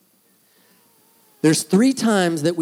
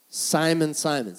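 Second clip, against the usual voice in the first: gentle "Simon, Simon", the second falling away; caring, compassionate. Acted. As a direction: say "Simon, Simon" with measured care. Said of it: "So what kind of tone does he have?".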